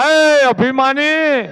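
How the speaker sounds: drawn-out rebuke of a proud king; Mandodari rebuking. Acted. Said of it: "Mandodari જવાબ આપ્યો". (ધીમો, ઊંચો ઠપકો)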